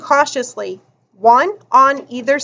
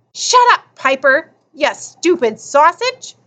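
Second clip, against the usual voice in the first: put-on angry kid shout; 3 semitones higher than usual. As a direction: snap at him to shut up. Kids squabbling, cap smacking.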